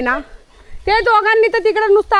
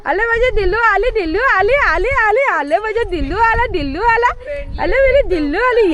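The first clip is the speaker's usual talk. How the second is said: लाडिक बोलणे; 2 semitones higher than usual. Real, not acted. Coaxing the dog in baby talk.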